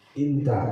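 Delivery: inta said with i, not anta; the dialect form inta, short and falling; inta, the colloquial Arabic vowel; dialect pronunciation. Shown as a demonstration. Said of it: "orang sana bilangnya bukan anta".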